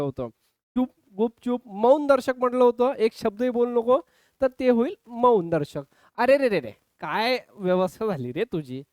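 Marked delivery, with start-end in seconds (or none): 6.2-8.8 mild mock dismay, sinking lower; acted sorrow. Shown as a demonstration. Teacher acting out a sorrow interjection for students, mild mock grief. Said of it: "शोक दर्शक".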